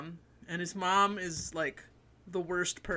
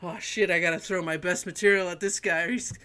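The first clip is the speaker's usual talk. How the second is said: nervous comic; 5 dB louder than usual. Pretend. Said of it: "like, sweating".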